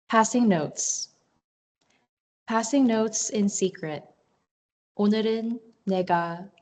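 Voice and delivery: measured poetry recital, pausing between phrases; poem reading. Acted. Poet reads chapbook poem on language to online audience, measured recital. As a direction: read it as a poem, letting each line land.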